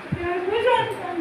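quiet closing echo; soft repeat. Acted. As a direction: let তুই আমার কুল সন্তান fall away to a murmur. Repeats claim, dropping away.

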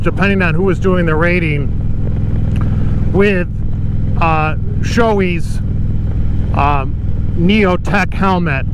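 talking inside a motorcycle helmet; speaking through wind noise while riding. Real, not acted. Riding the bike wearing the helmet.

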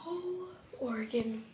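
slow dramatic lament; mock lament. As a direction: drag it out like a poem.

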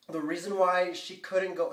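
talking while holding in a sneeze; holding back a sneeze. Real, not acted. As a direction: hold a sneeze in as you speak. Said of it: "sorry, I have to sneeze really bad".

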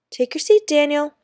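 firm classroom order; teacher's command. A narrator's reading. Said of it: "Miss Mowbray said".

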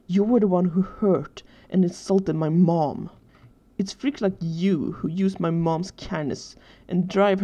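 slow, emphatic accusing tone; angry accusation. Acted. Tearful boy accuses Danny over his mom, angrily. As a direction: lay the blame heavily, word by word.

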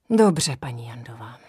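smutně, šeptem a níže; rezignovaně, skoro šeptem. Acted. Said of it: "řekl smutně". (kapitán smutně přijímá její odmítnutí, šeptem)

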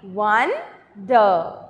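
"wonder" split into won, then der, falling low; broken into syllables. Shown as a demonstration. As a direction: say "wonder" as two separate beats. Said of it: "So let us try".

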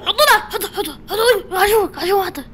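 mock crying plea. Loud pleading for likes.

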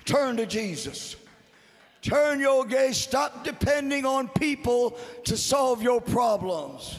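full-force preaching. Real, not acted. Preacher assures congregation they are never alone, impassioned shouting. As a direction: build and ring out like a revival preacher.

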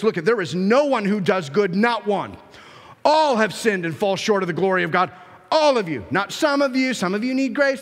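insistent pulpit preaching; forceful preaching. Acted. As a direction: drive each point home like a preacher.

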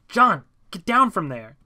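loud, high shout with drawn-out words; calling up. A narrator's reading. Narrator calls friend down from statue, loud shout. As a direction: shout it up to someone out of reach.

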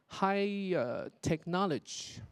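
TECHNOLOGY cut to "tech-NOL-uj"; slow "technology" without its final EE; dropped final syllable. Retold or imitated. Teacher quoting a student's slip, "technology" cut short. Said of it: "丢掉了一个音节".

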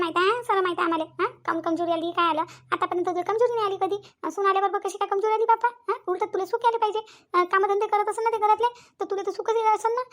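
a high, knowing gossip stirring trouble; gossiping neighbor woman. Acted. Neighbor to Ranjana, high and prying about the daughter-in-law.

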